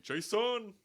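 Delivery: high, loud, drawn-out meme scream; imitated screaming. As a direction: scream the name like a mock-frantic dad. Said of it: "people were just screaming".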